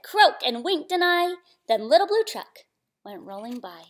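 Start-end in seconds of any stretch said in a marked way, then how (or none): 0.0-0.4 loud, short storybook croak; toad croak. A narrator's reading. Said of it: "Toad said".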